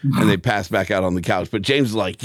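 ordinary talk, nothing marked

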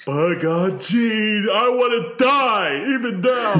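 loud, high, slow wrestler yell; hammed-up Ric Flair promo; Ric Flair impression. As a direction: bellow it like an old wrestling star.

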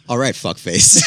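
loud barked insult; Jersey insult shout. Retold or imitated. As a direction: shout it at another driver. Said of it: "The second is".

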